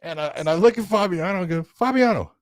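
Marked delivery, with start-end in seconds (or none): 1.6-2.3 high, raised call of a name. Retold or imitated. Referee calling fighter's coach, high raised voice. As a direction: imitate hailing someone across the mat.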